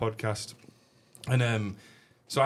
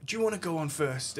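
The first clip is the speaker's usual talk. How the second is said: high, singsong mock of Patrick; imitating Patrick; 10 semitones higher, 3 dB quieter than usual. Host imitating Patrick asking to go on first, singsong. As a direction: put on a lilting star voice.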